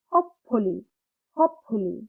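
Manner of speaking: Hopefully with HOPE stressed, falling after; stressed first syllable. Shown as a demonstration. Teacher drilling the word twice, stress on HOPE. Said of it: "stress সহকারে পড়ব".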